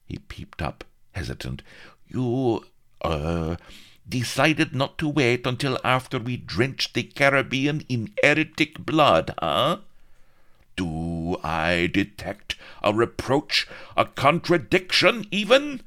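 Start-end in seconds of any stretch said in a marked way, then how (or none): 2.1-9.8 high, nervous probing voice; hesitant greaseball. A narrator's reading. 10.8-15.8 high, loud outraged shriek; screaming viceroy. A narrator's reading. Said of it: "screamed the Viceroy".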